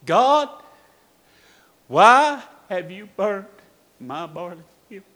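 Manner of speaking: retold scream of grief, held back from full force; anguished cry. Preacher kneeling at his son's grave, crying out. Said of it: "he was screaming".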